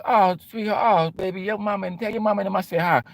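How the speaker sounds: put-on playful brush-off to a girl; talking to a kid. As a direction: humour her like a little girl. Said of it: "treat them like a young kid".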